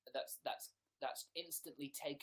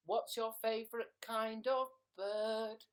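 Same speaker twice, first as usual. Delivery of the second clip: raised pitch, louder read-out; show-host question; 7 semitones higher, 5 dB louder than usual. Acted. Host reading a viewer's question, loud and high. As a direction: announce the question with a flourish.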